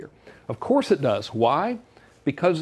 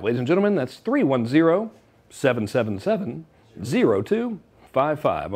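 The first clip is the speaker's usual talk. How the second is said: mock TV pitchman, drawing the digits out; announcer voice. Shown as a demonstration. Host pitches the phone line to viewers, mock announcer. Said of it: "I'm gonna talk like this for the remainder".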